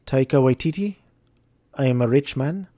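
unplaceable put-on foreign accent; Kevin Feige. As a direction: rich boss in a vague made-up accent. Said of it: "an accent".

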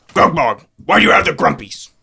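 half-hearted Scottish pirate; a hint of Scottish brogue; weak Scottish accent. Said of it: "You're not Scottish enough".

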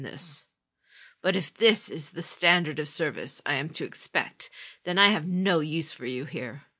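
loud, cold reprimand; stern rebuke. Acted. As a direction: dress down a disgraced servant. Feigned dismissal of a subordinate.

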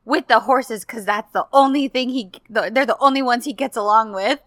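mock quote that breaks into laughter, loud; laughing while quoting. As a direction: laugh through the retold joke about the horses. Retelling Seifi's teasing reply, laughing.

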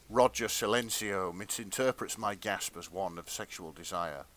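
measured, hushed-down storyteller read; dramatic fan fiction narration. A narrator's reading. Reader performing steamy fan fiction for friends, dramatic narration. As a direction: read it as earnest literary erotica.

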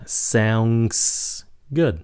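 "Sounds" with a clear s sound; hissed s. Shown as a demonstration. Teacher stressing the s sound to students. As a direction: give the s in "Sounds" a hiss. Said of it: "Các bạn nhớ xì nha".

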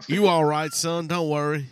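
put-on lightly drawled Georgia accent, calling him son; a hint of a Georgia lawman. Officer to a stopped driver, in a light Georgia accent. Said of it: "You're doing something like a Georgia accent".

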